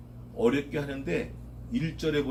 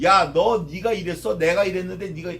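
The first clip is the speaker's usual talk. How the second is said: confronting angrily; 5 dB louder than usual. Retold or imitated. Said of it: "멱살 잡고 따지는 거예요".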